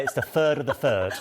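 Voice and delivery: "third" pronounced "furd". Shown as a demonstration. Presenter free to say it his old way, "third" with F for TH. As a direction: put an F at the front of each "third". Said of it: "didn't used to make T Hs properly".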